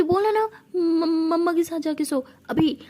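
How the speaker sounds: an upset friend insisting through tears; tearful insistence. Acted. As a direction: push her firmly, voice cracking. Insisting her friend sleep with mom.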